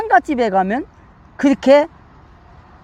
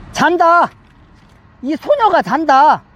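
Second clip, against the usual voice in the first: slightly raised, drawn-out proclamation; firm declaration; 3 semitones higher, slower than usual. Acted. Preacher voicing Jesus to the mourners, firm declaration. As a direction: quote it as a firm pronouncement.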